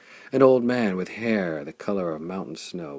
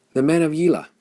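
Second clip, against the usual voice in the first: higher and louder shout; excited cry; 9 semitones higher, 9 dB louder, faster than usual. A narrator's reading. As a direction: call out the banners with alarm. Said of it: "and cried".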